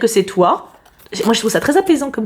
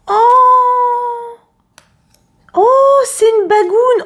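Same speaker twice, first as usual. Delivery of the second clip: delighted; 12 semitones higher, 4 dB louder, much slower than usual. Real, not acted. Unboxing a gift, delighted.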